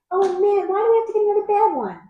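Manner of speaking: playful whine, not truly angry; mock mad. Real, not acted. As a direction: pout over another bad beer. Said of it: "I'm mad".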